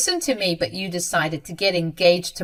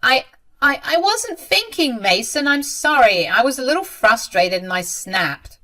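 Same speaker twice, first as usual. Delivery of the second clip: high, stammering plea; panicked apology; 6 semitones higher, 6 dB louder than usual. A narrator's reading. Mother apologizing to her angry son, flustered. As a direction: stumble into an excuse, pitch leaping up.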